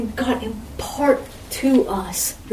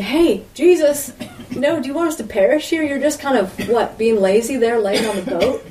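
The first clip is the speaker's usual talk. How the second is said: mock panicked disciples; 3 semitones higher, 3 dB louder than usual. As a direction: play the frantic disciples half in jest. Disciples waking Jesus in storm.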